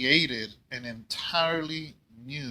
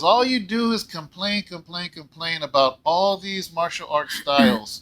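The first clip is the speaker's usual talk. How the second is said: mock scolding wife; 3 semitones higher, 3 dB louder than usual. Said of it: "and she goes".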